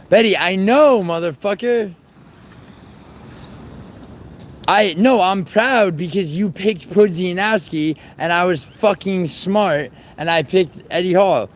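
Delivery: streamer fires back at Betty over the bet, exasperated; indignant outburst. Real, not acted. Heated reply to chat taunt.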